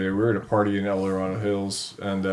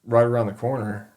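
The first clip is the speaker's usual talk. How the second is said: higher, louder put-on eager voice; mock helpful guys; 4 semitones higher, 5 dB louder than usual. The guys on the lawn feign helpfulness, eager and higher. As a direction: play the innocent, too eager to help.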